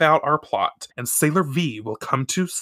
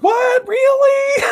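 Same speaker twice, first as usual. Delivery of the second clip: high, loud shocked squeal; shocked disbelief; 6 dB louder, slower than usual. Real, not acted. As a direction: react as if the twist just hit you. Shocked reaction to plot twist.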